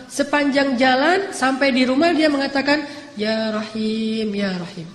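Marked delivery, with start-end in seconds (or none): 3.2-4.9 slow, soft tender plea; gentle pleading. Acted. Old woman pleads to God, soft gentle prayer. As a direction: beg softly and lovingly. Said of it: "dengan bahasa yang lembut".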